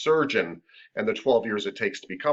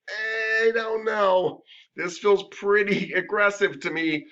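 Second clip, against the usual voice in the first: unsure therapist; 9 semitones higher, much slower than usual. Retold or imitated. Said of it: "starting to feel like".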